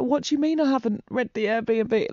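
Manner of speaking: retold tearful protest. Retelling her reply to her friend on the phone, mock tearful protest. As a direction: imitate a tearful, disbelieving question. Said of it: "Like, crying my eyes out".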